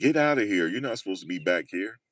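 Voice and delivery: acted-out, stern, mild barking tone. Retelling a worker chasing them out of a back area, imitating a man yelling. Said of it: "that guy was yelling at me".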